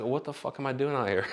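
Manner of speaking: amused laughing question; laughing disbelief. Retold or imitated. Model laughs at himself on the runway, laughing. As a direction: laugh at your own panic.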